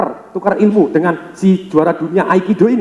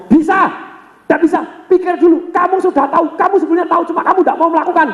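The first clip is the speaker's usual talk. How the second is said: much higher, hammed-up squeaky insistence with a laugh; Bruce Lee voice; 11 semitones higher than usual. Bruce Lee teasing the champion, high comic voice. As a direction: crank the voice up high and needle him. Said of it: "Bruce Lee ngomong".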